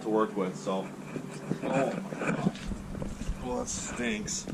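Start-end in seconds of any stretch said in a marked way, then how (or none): 1.6-4.5 disgusted by smell. Real, not acted. Rotten skull smell hits him.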